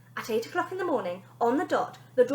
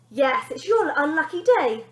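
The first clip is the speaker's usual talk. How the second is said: purring; 5 semitones higher, 8 dB louder than usual. Acted. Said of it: "purred the lady".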